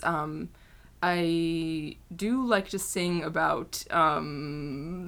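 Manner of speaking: slow, halting British boy-band impression; lightly put-on British accent, drawn out; a singer. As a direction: ponder it slowly with lots of ums. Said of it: "This is Zane".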